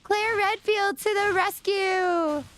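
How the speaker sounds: slow, drawn-out mock-heroic cry; heroic rallying call. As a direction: stretch it like a playful battle call. Playful heroic announcement in stream.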